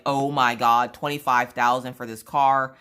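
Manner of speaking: loud, emphatic amazement; retold thrilled outburst; asthmatic excitement. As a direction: imitate a husband blown away by the bargain. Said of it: "had the asthma that day".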